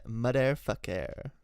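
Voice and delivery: put-on slow French-accented swearing. Repeats the French-accent line.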